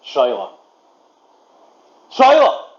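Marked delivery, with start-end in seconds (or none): 2.1-2.7 much higher, louder call. Real, not acted. Caller to a lost voice assistant, shouting out. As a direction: shout to find someone who has gone silent.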